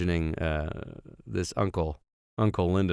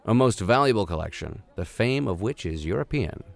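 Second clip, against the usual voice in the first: measured storybook reading voice; story narration; 3 semitones higher than usual. A narrator's reading. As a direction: read it like a classic adventure novel. Reads novel aloud as narrator.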